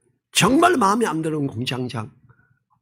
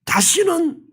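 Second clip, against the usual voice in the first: earnest prayer; 4 semitones higher than usual. Retold or imitated. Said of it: "간절히 기도했어야 돼요".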